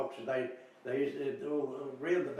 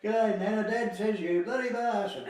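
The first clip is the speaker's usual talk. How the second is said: higher and louder, slowing, laughing through it; the kid innocently passing on a swear; laughing mock child; 7 semitones higher, 6 dB louder than usual. Child repeating dad's swearing.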